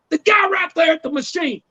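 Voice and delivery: high, insistent redneck voice; imitated redneck. Redneck tells Bubba who he means, high mock voice. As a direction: point him out in high-pitched impatience. Acts out redneck pointing him out.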